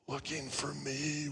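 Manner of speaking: slow, soft whispered punchline. Retold or imitated. Hiding boy reveals the punchline to the caller, whispering. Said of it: "whispered Jimmy".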